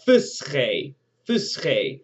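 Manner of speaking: fusche repeated as FOOS-khay, the F clear at the front; Egyptian verb modeled. Shown as a demonstration. Teacher shows the F sound in fusche to students. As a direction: say fusche stressing the opening F.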